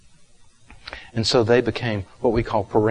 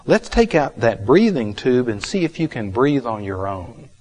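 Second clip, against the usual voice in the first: louder, upbeat mock-cheerful therapist; great enthusiasm; 2 semitones higher, 7 dB louder than usual. Therapist bursts into the hospital room, hammed-up enthusiastic. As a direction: brightly announce it like a keen therapist. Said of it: "With great enthusiasm".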